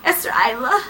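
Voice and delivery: high, breathy, halting; hammed-up halting confession; breaking confession. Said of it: "He's like".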